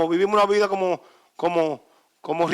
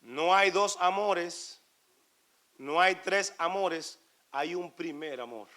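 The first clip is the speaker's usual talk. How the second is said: hushed sermon voice; intimate preaching; 9 dB quieter than usual. Real, not acted. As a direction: draw them in, quiet and close.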